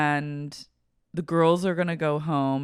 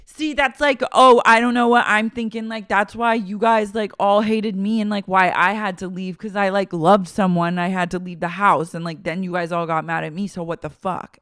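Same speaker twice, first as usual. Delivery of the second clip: mock Angelina rant; 3 semitones higher, 6 dB louder than usual. Angelina from the back seat, loud whiny rant. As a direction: blurt it all out, making it about herself. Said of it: "she pipes up from the back seat".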